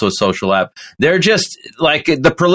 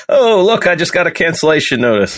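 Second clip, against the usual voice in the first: higher-pitched feigned discovery; mock surprise; 5 semitones higher than usual. Co-host jokes about being cancelled for his remark, mock surprise. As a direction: pretend you just spotted bad news. Acts out getting cancelled after joke.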